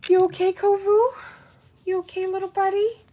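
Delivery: high cooing voice to the dog; pet talk. Real, not acted. Checking on the dog.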